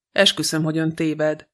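usual speaking voice

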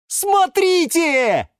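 high, drawn-out cry of discovery; excited shout. A narrator's reading. Yura calls the plants to the aquarium, shouting excitedly. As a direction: call everyone over, thrilled. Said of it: "закричал он".

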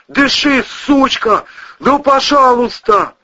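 high, loud yell turning to begging; desperate yelling. Acted. Cousin reviving the woman, loud desperate pleading yell. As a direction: scream then plead. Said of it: "орал Ковторанг".

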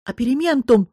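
put-on a frightened old man yelling the name; horrified cry. A narrator's reading. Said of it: "с ужасом выкрикнул он". (испуганный выкрик)

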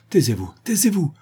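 high, urgent silencing cry; frightened plea for silence; terrified hushing. A narrator's reading. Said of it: "Elle semblait secouée par la terreur".

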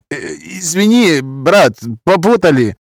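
smooth things over in a high voice; placating Gypsy peacemaker. A narrator's reading. Drunk's friend smoothing conflict, placating. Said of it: "попытался сгладить конфликт".

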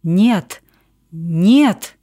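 ordinary delivery, nothing marked

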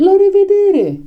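high, drawn-out group goodbye call; chorused farewell. A narrator's reading. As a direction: call goodbye like a whole crowd. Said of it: "ziseră ele în cor". (rămas-bun strigat în cor, pe ton înalt)

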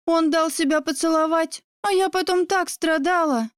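slightly lifted, lightly acted girl talk; friend's girlish chatter.

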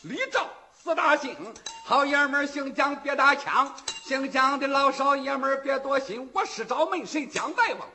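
bellowed public challenge, voice pushed high and loud. Acted. Wu Song bellows his challenge to the Jiang clan, loud and high. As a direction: call out the whole village, full chest.

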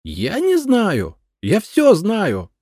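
high, loud, slow insistent shout; shrieking protest; protesting yell. A narrator's reading. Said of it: "протестующе заорала хозяйка дома".

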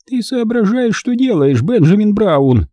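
high, scolding granny; cross old woman's indignant question; displeased old woman. A narrator's reading. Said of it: "недовольную физиономию бабушки Бон".

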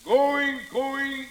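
auctioneer shouting going going sold. Acted. Auctioneer pushing bids, closing sale.

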